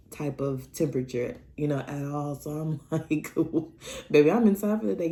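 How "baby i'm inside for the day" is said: louder, playful refusal; acted-out sassy refusal with extra volume; mock firm refusal. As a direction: announce it emphatically, as a playful opt-out.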